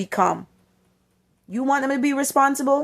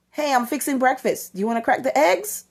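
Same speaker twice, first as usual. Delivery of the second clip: excited invite; 3 semitones higher than usual. Shown as a demonstration. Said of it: "You have to sound excited".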